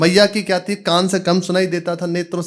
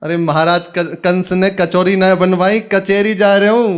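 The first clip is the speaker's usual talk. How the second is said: exasperated loud correction; 3 semitones higher, 5 dB louder than usual. Acted. Exasperated son corrects mother.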